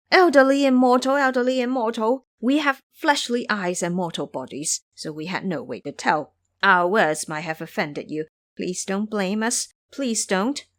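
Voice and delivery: grovel like nervous imps begging pardon; lightly voiced imps pleading; fawning imps.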